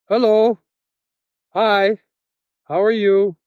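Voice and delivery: high-pitched, drawn-out polite hello; acted meek greeting. Captive greeting the men at his window, high and polite. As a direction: greet them in a high, careful voice. Nervously greeting armed captors.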